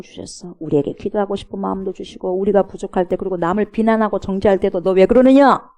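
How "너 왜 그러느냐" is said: louder, reproachful challenge; stern rebuke. Acted. God questioning someone who condemns others, stern rebuke. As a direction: call them out with a raised voice.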